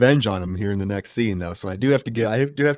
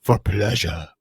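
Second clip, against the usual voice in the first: low, softer character quote; lightly imitated Giuseppe; 6 semitones lower, 3 dB quieter, slower than usual. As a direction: drop low for the film villain's answer. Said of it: "And Giuseppe says".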